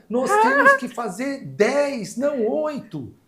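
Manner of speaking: desabafo choroso, cada vez mais agudo; chorosa e indignada. Retold or imitated. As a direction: chorando de raiva, a voz subindo muito. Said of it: "Ela já tava chorando". (funcionária chorando protesta contra o corte, cada vez mais aguda)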